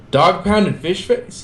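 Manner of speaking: high, slow goofy voice; turtle voice. Acted. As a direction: play it as a goofy teen turtle.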